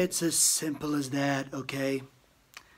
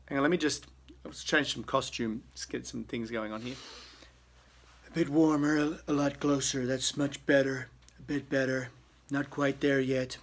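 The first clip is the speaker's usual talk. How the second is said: ordinary delivery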